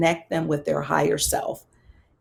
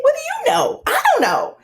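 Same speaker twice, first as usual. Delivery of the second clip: much higher, near squeal, exasperated; distressed outcry; 4 dB louder than usual. Retold or imitated. Terrell sobbing, answering the pastor in a high distressed cry. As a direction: cry it out, overwhelmed and lost. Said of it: "I'm like".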